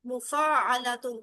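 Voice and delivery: each syllable drawn out slowly; slow teacher model of mufa'alatun; slowly spelled out. Shown as a demonstration. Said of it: "یہ باب کون سا ہے".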